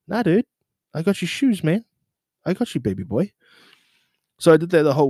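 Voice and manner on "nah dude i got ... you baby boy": excited. Retold or imitated. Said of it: "reassuring the guy".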